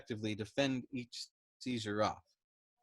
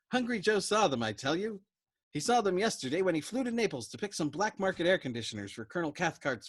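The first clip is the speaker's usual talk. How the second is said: higher, louder frantic rant; agitated Dobbs; 6 semitones higher, 4 dB louder than usual. Acted. Dobbs pressing Yossarian to kill the colonel, higher and louder. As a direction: push it out in a fevered rush. Dobbs ranting about Hungry Joe.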